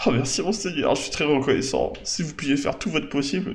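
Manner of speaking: mildly hammed-up pleading thanks; grateful villager. Villager thanks the lord for agreeing to help, humbly grateful.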